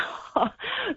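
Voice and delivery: a short, high little chuckle, lightly imitated; mock the caller's amused little laugh; retold laugh. Caller caught out as AI, imitated with a light chuckle. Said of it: "and then he kind of laughed".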